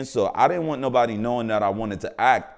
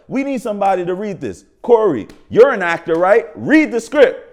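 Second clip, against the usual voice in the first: director calling out; 9 semitones higher, 10 dB louder than usual. Retold or imitated. Director calling on him on set.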